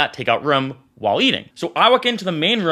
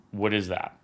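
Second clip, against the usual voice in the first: imitated fearful question; 9 semitones lower, 10 dB quieter than usual. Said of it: "I saw fear in his eyes".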